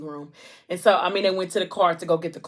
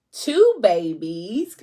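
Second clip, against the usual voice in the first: drawn-out announcement; 5 dB louder, much slower than usual. Retold or imitated. Announcing the births.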